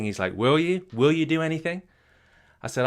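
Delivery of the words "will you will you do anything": high, pointed questioning; probing challenge. Retold or imitated. Mentor testing Cody's commitment with a high, probing challenge. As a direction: push him, testing if he means it.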